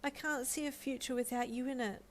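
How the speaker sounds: a hopeful, tender proposal; pleading. Acted. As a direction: ask her with your whole heart. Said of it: "he pleaded".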